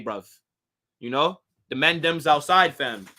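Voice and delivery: lightly put-on London accent; a hint of a North London accent. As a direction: slip into a casual London accent, bruv. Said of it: "I could do a good U K accent".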